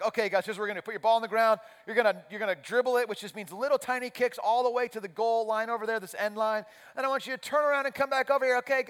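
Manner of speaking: high, sing-out, super sweet instructions; sweet camp counselor. Retold or imitated. Coach instructing six-year-olds on dribbling, sweet camp counselor voice. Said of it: "Super sweet camp counselor voice".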